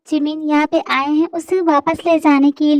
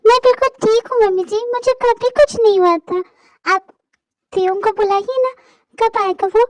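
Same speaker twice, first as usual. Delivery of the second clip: put-on raised, tearful girl's voice pleading; a hurt young wife accusing her family, raised voice; distressed young woman; 3 semitones higher than usual. To her in-laws, a hurt young wife in a raised tearful voice. Abused girl confronts in-laws.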